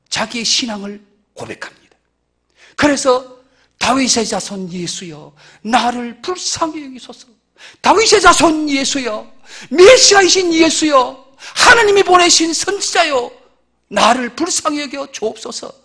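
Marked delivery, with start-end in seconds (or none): 3.8-15.7 slow, drawn-out plea for mercy; the blind man crying out to Jesus, slow pleading. Acted. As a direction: beg slowly, lingering on each cry. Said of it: "그렇게 부르짖고 기도했던 겁니다".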